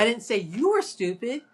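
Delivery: were stressed with a rise. Shown as a demonstration. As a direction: lean on were. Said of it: "emphasizing all the different words".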